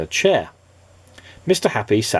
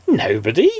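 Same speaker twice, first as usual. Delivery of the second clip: gasped; 4 dB louder than usual. Acted. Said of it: "gasped Mister Happy".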